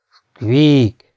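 youth's awkward, stretched squeak; tentative squeak attempt. A narrator's reading. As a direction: attempt a dormouse squeak, drawn out. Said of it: "próbálkozott az ifjonc".

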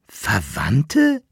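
mild indignant outburst; a touch of outrage at the word; understated indignant cry. Acted. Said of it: "rief der Kaplirsch entrüstet".

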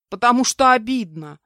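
loud, high tearful wail; sobbed complaint. A narrator's reading. Insulted captive answering the kidnapper, sobbing. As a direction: wail it out with hurt. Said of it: "прорыдала я".

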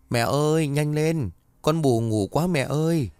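put-on a young daughter whining to mum to hurry; little girl calling. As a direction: call out like a drowsy little girl. Little girl calls her mother.

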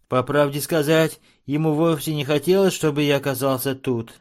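ordinary delivery, nothing marked

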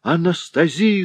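high alarmed yell of a name; husband crying out in alarm; wailing cry. A narrator's reading. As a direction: cry out for his wife. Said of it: "завопил Альфред".

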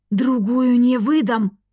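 slow, pressed angry hiss. A narrator's reading. Rector hissing at Evi over the sheet, slow angry. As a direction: hiss the refusal through the teeth. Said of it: "зашипел Голд в сторону Эви".

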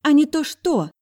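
put-on high, loud taunting girl's voice; high loud taunting sister; provoking girl. A narrator's reading. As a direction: goad him on. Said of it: "провоцировала она".

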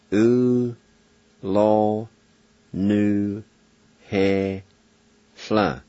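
syllable by syllable: U, lo, nu, he, sla; Cherokee pronunciation. Shown as a demonstration. Teacher sounding out a Cherokee word for learners, syllable by syllable. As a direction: sound out U, lo, nu, he, sla slowly and clearly. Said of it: "and it's pronounced".

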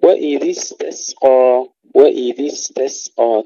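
both s sounds in استسقى light and hissed; slow recitation of استسقى with crisp sibilant sins; thin, whistling sins. Shown as a demonstration. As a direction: let each س in استسقى whistle without a vowel. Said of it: "ترقيق السينين".

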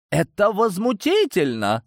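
high, outraged protest; indignant outburst. Acted. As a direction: cry out in indignation. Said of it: "Советники начали возникать".

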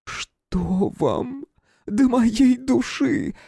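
high, slow, mildly tearful woman's voice; breaking into sobs. A narrator's reading. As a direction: voice cracking toward a sob. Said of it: "сорвался на рыдание". (голос срывается на рыдание)

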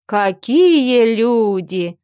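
slow, drawn-out delighted exclamation; surprised welcome. Acted. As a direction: stretch it out in happy surprise. Surprised friend greets heroine.

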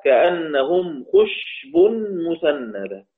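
slow measured Quranic recitation of the verse; slow Quran recital. Shown as a demonstration. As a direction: recite it slowly, tajwid style.

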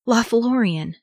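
high, appalled echo; shuddering dismay. A narrator's reading. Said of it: "and he shuddered".

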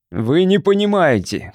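high, slow forceful cry; loud shout. A narrator's reading. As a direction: try to sound commanding. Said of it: "крикнул он громким голосом". (громкий крик)

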